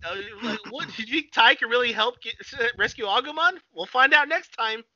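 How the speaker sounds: high-pitched episode teaser voice; mock cartoon narrator. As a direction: tease the cliffhanger in a put-on high voice. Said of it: "have that narrator pop in".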